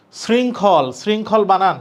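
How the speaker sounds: slow, deliberate letter-by-letter spelling. Shown as a demonstration. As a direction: spell each part aloud like a model for students. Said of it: "এভাবে পড়বা".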